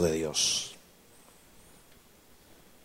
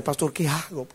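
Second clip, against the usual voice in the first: softly pleading, raised voice; imitated tearful plea; 6 semitones higher, 4 dB quieter than usual. Mother asks her pastor for advice, imitated tearful plea. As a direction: act out a crying mother's plea.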